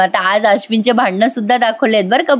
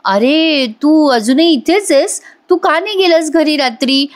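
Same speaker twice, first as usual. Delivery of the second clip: feigned weakness; 5 semitones higher than usual. Retold or imitated. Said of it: "अत्यवस्था अवस्थेत उठती".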